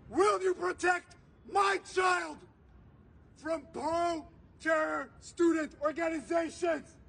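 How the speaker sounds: forceful, emphatic oratory with weighty pauses; impassioned protest speech. Real, not acted. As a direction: address the crowd with urgent conviction, hammering key words. Impassioned public speech at a rally.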